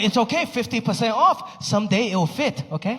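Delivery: lightly voiced coaxing mom. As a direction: talk him into it like mom. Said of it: "she's like".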